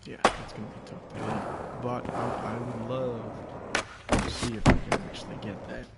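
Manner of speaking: talking while chewing gum. Real, not acted. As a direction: speak around a wad of gum. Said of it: "Apologies if you hear me chewing".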